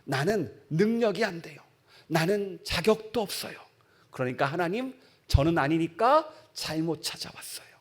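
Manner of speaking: Gideon's excuse. Acted. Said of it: "이렇게 이야기합니다".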